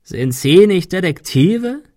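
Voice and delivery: croaking. Acted. Claymore taunting the detectives, croaking. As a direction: croak the question with drawn-out scorn. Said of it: "krächzte er".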